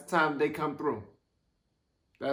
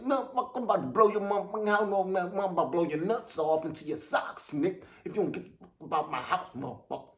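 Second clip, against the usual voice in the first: cocky threat; 2 semitones higher, 3 dB quieter, faster than usual. Pretend. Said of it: "you gotta have your head, like".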